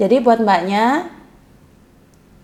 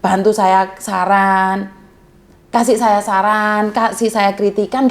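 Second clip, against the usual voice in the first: earnest plea; 4 semitones lower than usual. Retold or imitated. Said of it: "saya selalu bilang".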